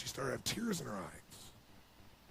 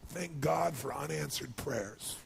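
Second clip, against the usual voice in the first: quoting song line; slower than usual. Retold or imitated. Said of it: "old country song that says".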